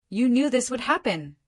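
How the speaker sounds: snapped. A narrator's reading. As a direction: bite the words back at him, lightly voiced mother. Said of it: "she snapped".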